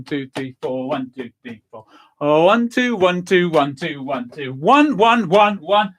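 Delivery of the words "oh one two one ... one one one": building count. Shown as a demonstration. Leader builds to final shake, rising count. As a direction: speed toward the finish. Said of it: "then ones, then hey".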